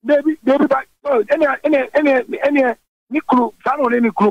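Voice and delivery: can't believe what he just heard; excited disbelief. Real, not acted. Reacting in disbelief to host.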